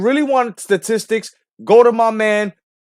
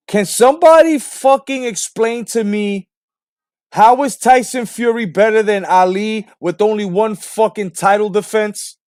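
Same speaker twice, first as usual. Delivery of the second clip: exasperated demand; 3 semitones higher, 4 dB louder than usual. Real, not acted. Ranting demand at fans.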